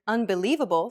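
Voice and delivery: "unbelievable" with the li longer and stronger; stress on LI. Shown as a demonstration. Teacher showing word stress, li stressed in "unbelievable". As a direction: lean on li in "unbelievable". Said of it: "how the li is accentuated".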